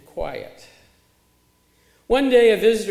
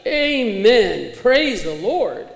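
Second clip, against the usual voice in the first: loud, raised-pitch amen and praise; imitated shout; 3 semitones higher, 7 dB louder, much slower than usual. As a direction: call it out like an over-eager worshipper. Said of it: "and the visitor shouted".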